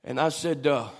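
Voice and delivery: hushed, tender recollection. Real, not acted. Preacher recalling a talk with his late mother, hushed. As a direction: drop right down, halting between phrases.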